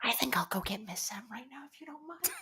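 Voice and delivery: hushed, hurried whisper; scared off, whispering a polite exit; timid retreat. Acted. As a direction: whisper it quickly and excuse yourself. Timid character slips away from the teasing.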